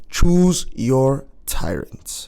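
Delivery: mock German announcer voice; slow, booming German-accented announcer. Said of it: "do the German accent the whole time".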